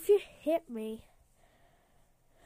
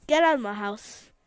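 angry shout; 3 semitones lower, 9 dB louder than usual. Acted. Shouting at intruder.

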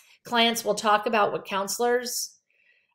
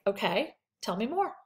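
softer, steady okay tell me more; calm and even; 5 dB quieter than usual. Shown as a demonstration. Counselor demos staying calm after hearing something shocking. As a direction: keep it level and inviting. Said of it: "I'm just like".

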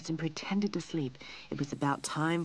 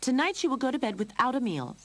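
raised, high scolding voice; stern mother, higher and louder; angry; 8 semitones higher, 5 dB louder, faster than usual. A narrator's reading. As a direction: lay down a punishment crossly. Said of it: "Lorene said angrily".

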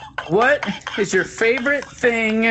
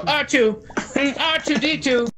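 anxiously calling after a droid companion; C-3PO; 3 semitones higher than usual. Pretend. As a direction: play the fretful robot calling his sidekick. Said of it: "I'm C three P O".

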